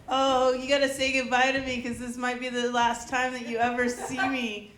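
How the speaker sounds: theatrical farewell, played for laughs; mock dramatic. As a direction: imitate a dramatic goodbye. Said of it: "Is she really dramatic?".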